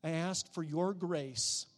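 soft pleading prayer; quiet prayer. Acted. Preacher shows the listener how to pray, softly. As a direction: ask God for help, hushed.

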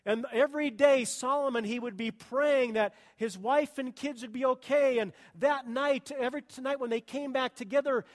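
loud, driving sermon storytelling; preaching at full force. Acted. Pastor building the story to his church, loud preaching. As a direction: push the story hard to the congregation.

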